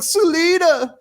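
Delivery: high, loud crying cry of a name; mock Bruce wail. Reviewer mocking Bruce sobbing for Selina, high hammed-up wail. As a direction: wail her name like a broken-down Batman. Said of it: "And he's like".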